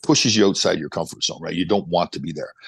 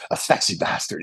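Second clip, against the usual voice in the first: amused, lightly imitated reply; retold laughing answer. Trainee answering his mentor about the mirror, laughing. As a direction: say it on the edge of a laugh. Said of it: "He starts laughing".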